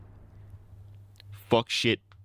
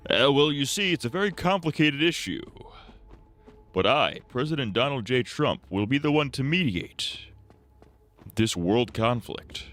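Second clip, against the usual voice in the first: higher, measured mock-statesman, slowing at the end; statesmanlike Trump; 6 semitones higher than usual. Streamer imagining Trump suddenly statesmanlike, mock dignified. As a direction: play Trump as a calm diplomat. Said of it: "statesman-like".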